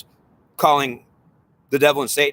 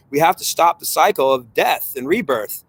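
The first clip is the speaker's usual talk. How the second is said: frustrated pleading soul; 3 semitones higher than usual. Acted. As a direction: voice of a tormented soul pleading to escape rebirth. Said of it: "suffering soul that is frustrated".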